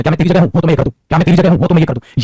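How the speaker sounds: "क्या मैं तेरी जगह हूं" said with mild extra push; emphatic. Shown as a demonstration. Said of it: "अब इसी को हम एम्फसाइज करके बोलते हैं". ("क्या मैं तेरी जगह हूं" हल्का ज़ोर लगा के)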